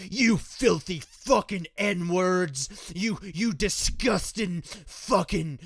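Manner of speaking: very slow, spat-out mock racist sneer; imitating a racist. Vlogger imitating a white racist insulting black people, slow mock sneer. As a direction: drag each insult out. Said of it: "going up to ... and be like".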